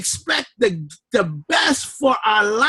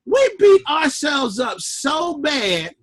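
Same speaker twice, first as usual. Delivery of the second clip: a retold rant from the car, half shouted; exasperated outcry; 4 semitones higher than usual. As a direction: shout it like you caught yourself beating yourself up. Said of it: "and I'm saying".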